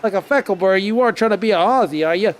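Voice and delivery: quick mock Australian accent; Aussie impression. Streamer teasing about trying to be Aussie, mock Australian accent. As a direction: rattle it off in playful Aussie. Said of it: "hope you liked my, uh, impression".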